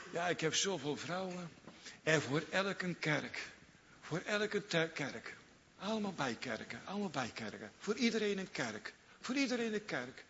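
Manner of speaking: high voiced king showing off his wives; boasting Solomon. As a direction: Solomon bragging, a church for every wife.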